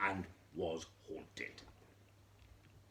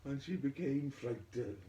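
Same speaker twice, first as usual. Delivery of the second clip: frightened; 7 semitones higher, 5 dB louder than usual. A narrator's reading.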